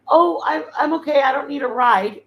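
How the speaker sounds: high, hurried "I'm okay"; flustered refusal. Retold or imitated. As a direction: quickly wave off the offer. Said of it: "and I was like".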